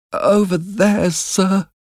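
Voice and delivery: put-on tiny, very high child's voice; frightened boy. A narrator's reading. Frightened boy answers the convict.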